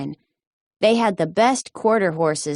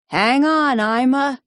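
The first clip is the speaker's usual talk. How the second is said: shouting; 7 semitones higher than usual. A narrator's reading. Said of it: "he shouted".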